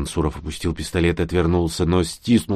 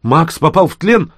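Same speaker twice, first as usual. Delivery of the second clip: high, louder shocked question; shaken disbelief; 9 semitones higher, 5 dB louder than usual. A narrator's reading. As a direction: ask in horror as it sinks in. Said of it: "и голос его дрогнул". (потрясённый вопрос)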